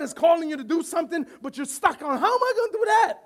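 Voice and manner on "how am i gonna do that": worried believer. Acted. Anxious believer voiced in sermon.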